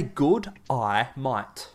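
"Good, I might" said loud, American style; mock American G'day mate. American tourist greeting Aussies, mock American accent. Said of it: "Just say".

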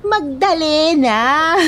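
dramatic. Acted. Proudly announces her role.

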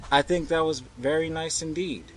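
put-on high-pitched polite little girl. A narrator's reading. Girl praising the man's tune, politely. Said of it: "the girl said politely".

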